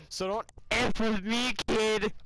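loud, high threatening yell; drunken threat. Acted. Drunk threatening a kid, yelled high and loud.

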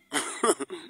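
short, dismissive chuckle; mocking laugh. Real, not acted. After daring opponents to try and defeat them, mocking chuckle. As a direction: laugh off the challenge.

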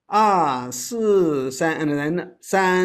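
slow, "si" given weight; teacher drilling tones; middle stress demo. Shown as a demonstration. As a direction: model three sounds in one breath. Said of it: "emphasize a little bit on the middle one".

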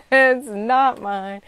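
a burst of laughter, then the words; laughing. Real, not acted. To her viewers, laughing with relief. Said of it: "y'all, it's not mine".

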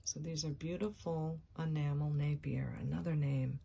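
breathy hushed whisper over the jewelry. Real, not acted. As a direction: whisper it like a secret treasure. Showing jewelry in hushed tones.

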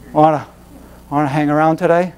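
low, sleepy, listless voice. Retold or imitated. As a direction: play a dull half-asleep friend. Acting lazy bored friends.

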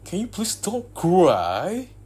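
high, loud and slow; exasperated plea. Acted. Begging the crying girlfriend to stop, high, loud and drawn out. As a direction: beg her to stop, at the end of your rope.

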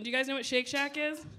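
usual speaking voice

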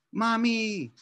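high, calling across the house for mom. Acted. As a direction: call out for mommy in distress. Girl wakes with gum stuck.

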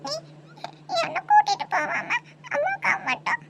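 tearful, broken-up complaint; a small child's crying protest. Acted. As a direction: sob between the words as you accuse. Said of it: "எதுக்காக அழுந்துட்டே இருக்கா".

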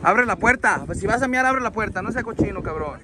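real exasperated scolding; scolding order. Real, not acted. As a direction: order him sharply to behave. Scolding man about to urinate.

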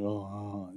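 low, soft retold groan; sick-feeling groan. Pastor reliving the afternoon after the call, sick-feeling groan. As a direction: groan quietly with imagined dread. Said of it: "that sick feeling".

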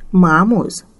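a thin reedy voice like a beginner flute player; squeaky old voice. A narrator's reading. Old usurer answering the young visitor, pinched and piping. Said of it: "cu vocea lui pițigăiată ca sunetele unui flautist începător".

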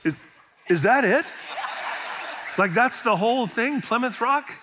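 mock disbelief, rising at the end; let-down disbelief. Tourist gawking at Plymouth Rock, mock disbelief. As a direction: play the tourist who can't believe it. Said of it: "Literally everyone that goes up goes".

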